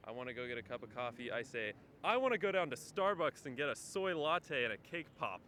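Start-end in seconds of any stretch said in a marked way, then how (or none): 2.0-5.4 loud, high-pitched, exaggerated non-New Yorker accent; put-on accent. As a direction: play up your own un-New York accent, loudly. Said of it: "It's all in the accent".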